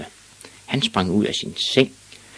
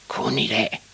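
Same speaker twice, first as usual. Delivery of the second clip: warning reminder; 5 semitones higher than usual. Acted. Witch reminds Ivan of the one-day limit, warning. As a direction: stress the limit in a higher voice.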